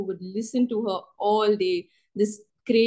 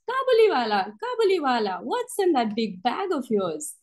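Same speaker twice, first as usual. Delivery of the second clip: lightly voiced child calling out a teasing question; little girl asking; 4 semitones higher than usual. Little girl asks her big friend their running joke, high sing-out. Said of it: "she would go and ask".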